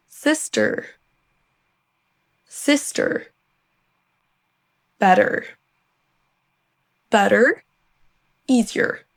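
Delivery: American word list, R-coloured endings; US accent. Shown as a demonstration. Teacher giving learners examples, US accent with final R. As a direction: model each word in American English, final R held. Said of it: "Si vous préférez l'accent U S".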